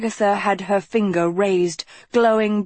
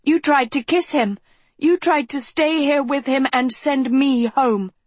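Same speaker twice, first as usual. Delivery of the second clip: angry; 8 semitones higher than usual. A narrator's reading. Furious accusation at Philip.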